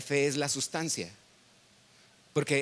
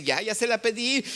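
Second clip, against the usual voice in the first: lightly pleased, pitch lifted; a happy believer's report, raised in pitch; mildly elated, voice lifting; retold contentment; 6 semitones higher than usual. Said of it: "salía muy contento".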